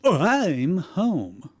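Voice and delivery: slow, loud, drawn-out arrival; arriving home. Acted. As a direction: call out that you're home, stretched out. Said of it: "He said, taking off his shoes".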